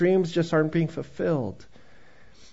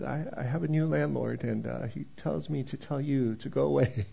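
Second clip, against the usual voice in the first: timid reply; 4 semitones lower, 10 dB quieter than usual. Retold or imitated. Timid tenant at door.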